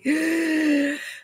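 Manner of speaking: sharp high gasp of dread; mock panicked intake of breath; acted anxious gasp. Teacher acting out a learner who must speak English, mock fearful gasp. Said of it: "te dá aquele".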